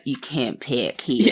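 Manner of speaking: slow mock American accent. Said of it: "could you do that accent always".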